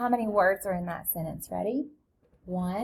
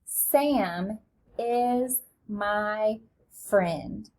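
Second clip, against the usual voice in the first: even slower, each word stretched; very slow read-along; much slower than usual. Shown as a demonstration. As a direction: read along at a crawl with the class. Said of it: "Read it with me".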